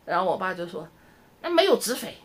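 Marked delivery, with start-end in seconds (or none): 1.4-2.1 higher, mock old dad's grumble; imitating dad. Daughter imitates her dad complaining there's no direct flight, higher mock grumble. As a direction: play her father fretting about no direct flight. Dad's reply on video call.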